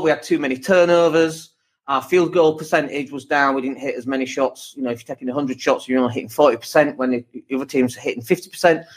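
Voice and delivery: emotionless stats readout; just read the numbers, no feeling; flat unemotional. Retold or imitated. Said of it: "There's no emotion in there".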